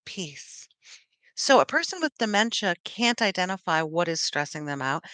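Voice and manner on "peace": much softer, lower, breathed out; soft peace. Retold or imitated. Alone in the car after shopping, a hushed sigh of peace. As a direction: exhale the word like a mantra.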